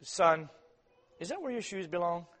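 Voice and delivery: soft, calm question to the son; gentle parent. Retold or imitated. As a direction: ask him kindly. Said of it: "You see the difference?".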